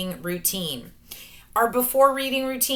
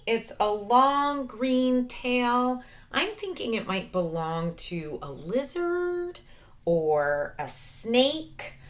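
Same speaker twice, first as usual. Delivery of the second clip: slow musing; 3 semitones higher, slower than usual. Shown as a demonstration. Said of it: "share what I think".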